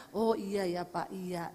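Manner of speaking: slow, meek yes-man reply; just humour your father, slowly; meek agreeing. Shown as a demonstration. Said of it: "Ngomongnya gini aja". (mengiyakan ayah dengan pelan dan patuh)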